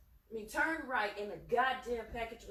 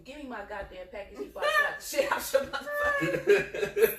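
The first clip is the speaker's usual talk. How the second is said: loud, raised-pitch demand; explosive, heated ultimatum; retold angry threat; 4 semitones higher, 10 dB louder than usual. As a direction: re-enact blowing up at the clerk. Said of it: "So now I'm angered".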